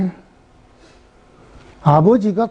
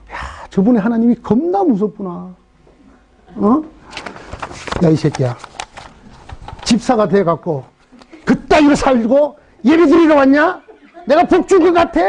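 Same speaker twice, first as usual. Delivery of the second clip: scary God scolding. Retold or imitated. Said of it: "딱 이렇게 느껴지는 거예요".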